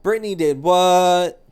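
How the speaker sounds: loud, high, slow shocked question; shocked disbelief. Pretend. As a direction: gasp it out in disbelief. Mock shocked reaction to news.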